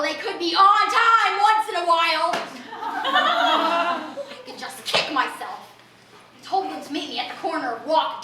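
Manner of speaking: a lightly raspy eccentric bag lady; raspy street lady. Acted. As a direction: talk like a streetwise oddball addressing the crowd. Character voice held throughout.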